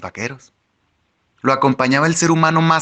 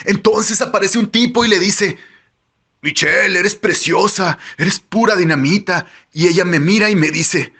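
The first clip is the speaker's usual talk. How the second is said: higher-pitched character voice, eagerly recounting; boastful storyteller character; 7 semitones higher than usual. A narrator's reading. Tyler tells the narrator how a man flattered Michelle, boastful. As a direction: tell the anecdote in a raised voice.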